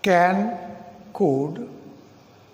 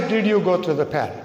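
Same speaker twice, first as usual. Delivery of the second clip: quick wrong version; 3 semitones lower, faster than usual. Shown as a demonstration. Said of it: "We cannot say".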